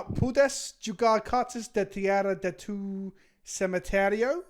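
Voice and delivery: slow, syllable-by-syllable Spanish read-out; careful Spanish reading. Shown as a demonstration. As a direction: sound out the Spanish card text slowly. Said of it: "I'll read it".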